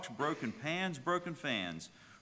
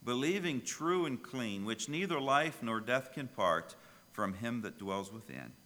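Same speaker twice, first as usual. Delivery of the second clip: recited hymn. Acted. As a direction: lay the hymn words out with reverence. Hymn lines recited at the start.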